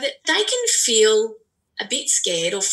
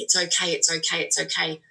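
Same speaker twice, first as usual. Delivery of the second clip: soothing repeated okay; 3 semitones lower than usual. Retold or imitated. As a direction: hush it down like calming a child. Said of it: "you're just saying".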